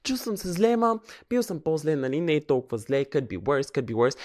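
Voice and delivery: high, breezy fake cheer; forced cheerful brush-off to friends; fake fine. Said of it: "И казах някога".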